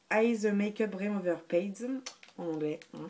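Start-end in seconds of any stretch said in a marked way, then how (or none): 0.1-1.9 slow English in a French accent; real French accent on English words. Real, not acted. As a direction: read the English product name with a French accent. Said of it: "avec mon super accent".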